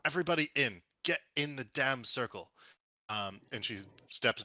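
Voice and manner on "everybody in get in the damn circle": raised, urgent in-character call; louder, higher rallying cry; yelling. Acted. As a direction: order everyone in with a moderate yell.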